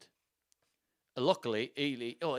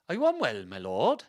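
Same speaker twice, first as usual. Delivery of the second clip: badly faked Welsh lord; attempted Welsh accent; 7 dB louder than usual. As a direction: have a shaky go at a Welsh accent. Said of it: "A bit of Welsh".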